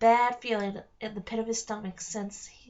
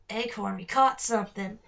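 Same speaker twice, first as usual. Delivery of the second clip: low growly voice; 3 dB louder than usual. Acted. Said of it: "low, growly voice of the smaller".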